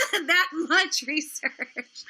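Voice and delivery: slow, drawn out through a laugh. Real, not acted. Laughing while mocking how little research Repzion did.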